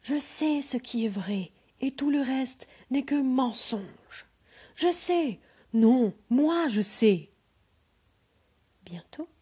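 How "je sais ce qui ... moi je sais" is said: rising squabbling shouts; shouting. Acted. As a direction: shout over each other, louder each time. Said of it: "tous les savants criaient en même temps".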